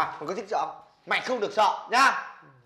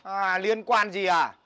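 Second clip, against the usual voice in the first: indignant echo; 3 semitones higher, 3 dB louder, much slower than usual. Acted. Throws friend's retort back.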